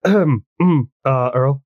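hesitant, acted nervous opener. Shy goth girl sidles up to Earl, nervous. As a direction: clear the throat and work up the nerve. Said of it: "kinda nervous".

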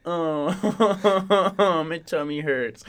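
whiny laughing moan of self-pity; mock groaning bellyache.

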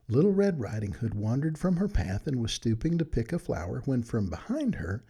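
put-on gentle read-aloud storytelling for children; bedtime story narration. A narrator's reading. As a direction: read it like a good night story to friends.

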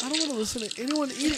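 fast, high, laughing protest; laughing disgust. Real, not acted. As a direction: laugh through the complaint. Disgusted by eating video.

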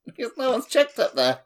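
talking through laughter, pitched high; giggling while explaining; can barely get the words out for laughing. Real, not acted. Laughing about the pervert.

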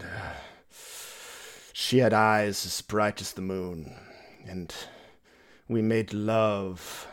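slow, brooding romantic reminiscence; a lightly voiced vampire remembering love.

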